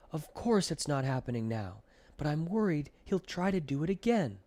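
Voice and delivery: put-on a boy fed up and worried, pushing back; angry and frustrated. A narrator's reading. Milton protesting to Grandpa, angry and frustrated. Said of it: "angry and frustrated".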